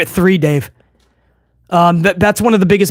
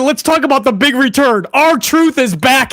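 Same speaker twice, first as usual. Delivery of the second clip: mock announcement; 6 semitones higher than usual. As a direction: drag out "R-Truth is back" like a big reveal. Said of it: "He said".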